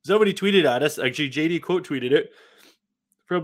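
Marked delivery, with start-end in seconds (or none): none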